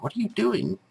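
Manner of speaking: hushed whispered question. Retold or imitated. Wife woken in the night whispering to husband. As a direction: whisper it like someone half asleep.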